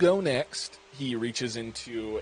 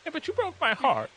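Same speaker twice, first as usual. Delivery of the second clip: heartbroken; 12 semitones higher than usual. Acted. Cook's hurt parting line.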